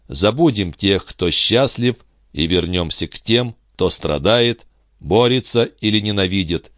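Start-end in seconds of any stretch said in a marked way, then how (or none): none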